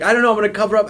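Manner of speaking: a hint of a slick eighties movie hunk; Alec Baldwin voice. Describing the dog photo, slipping into a mild Alec Baldwin voice. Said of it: "turned him into Alec Baldwin from Working Girl".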